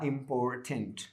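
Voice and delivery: "इंपॉर्टेंट" slowly, in three parts, im-por-tent; broken into syllables. Shown as a demonstration. Teacher showing the third break in the word, "इंपॉर्टेंट" syllable by syllable. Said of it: "तीसरा तरीका रहा".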